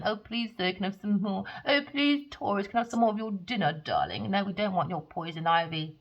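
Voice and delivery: hammed-up pleading little orphan; mock begging.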